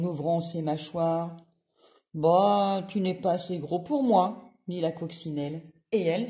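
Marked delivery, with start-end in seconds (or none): 2.2-4.4 loud scornful scoff; ladybug voice. Acted. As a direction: brush them off with contempt.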